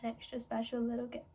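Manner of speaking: soft, teary, broken by little laughs; tearful. Real, not acted. Fan moved by a singer's message, crying softly. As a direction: cry through the words. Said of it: "so now I'm crying".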